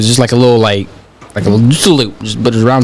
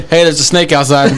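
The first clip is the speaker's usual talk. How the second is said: put-on shouting kid. Child shouting again.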